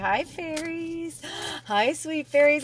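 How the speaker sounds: high, sweet hello; delighted greeting. Real, not acted. Reader greets her sweet fairies, delighted. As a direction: coo a drawn-out hello in a high voice.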